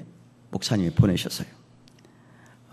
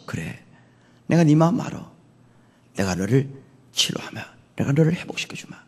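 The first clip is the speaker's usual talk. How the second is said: understanding reassurance; 2 semitones higher than usual. Acted. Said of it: "우리의 마음을 아셔서".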